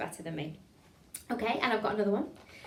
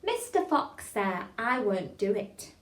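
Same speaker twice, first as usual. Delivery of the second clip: tongue-twister demo; slower than usual. Shown as a demonstration. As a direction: model the joined line slowly and clearly. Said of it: "We'll put those two together".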